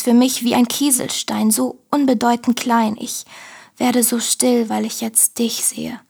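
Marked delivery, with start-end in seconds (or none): 4.7-6.0 whispered. Acted. Intimate prayerful moment, whispered.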